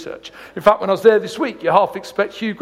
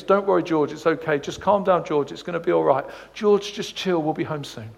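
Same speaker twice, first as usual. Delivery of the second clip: soothing dad; 3 semitones lower, 5 dB quieter than usual. Retold or imitated. Dad soothes screaming baby.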